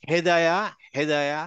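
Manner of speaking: হেদায়া with the হ from the bottom of the throat; ha from deep inside. Shown as a demonstration. Teacher models for students, হেদায়া with deep-throat হ. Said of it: "হা ভিতর থেকে আসবে".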